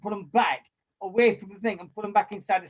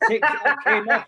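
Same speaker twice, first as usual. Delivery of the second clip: laughing; 4 semitones higher, 7 dB louder than usual. Retold or imitated. Retelling mate's inky hands.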